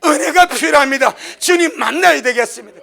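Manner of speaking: a blind man shouting his need, tearful; loud pleading cry. Retold or imitated. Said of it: "더 크게 소리 질러버립니다".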